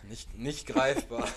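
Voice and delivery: laughing. Real, not acted. Laughing, said twice slowly.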